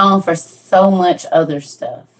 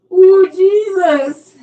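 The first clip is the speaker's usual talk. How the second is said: breathless exclaim; 9 semitones higher, much slower than usual. Real, not acted. Laughing fit continues.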